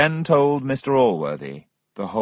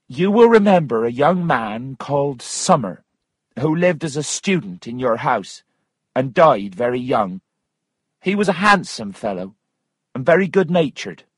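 lightly voiced woman recounting the past, pitched up; a touch higher, earnest storytelling in character; gently raised character voice; earnest Missus Waters; 5 semitones higher, 3 dB louder than usual.

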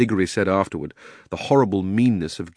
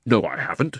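indignant; 3 semitones higher than usual. Acted. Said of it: "said Diggory indignantly".

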